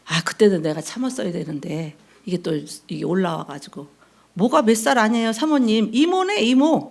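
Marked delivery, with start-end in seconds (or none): 4.3-6.9 sassy retort. Retold or imitated. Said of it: "내가 그랬어".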